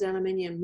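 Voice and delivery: aluminium with the extra "i" before "um"; "aluminium" pronounced the British way; British-style pronunciation. Real, not acted. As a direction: say "aluminium" with its full "-ium" ending. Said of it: "the way you say it is so cute".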